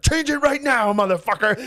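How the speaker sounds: high, loud mock yell; hammed-up furious father; mock angry dad. Dad chasing him, furious.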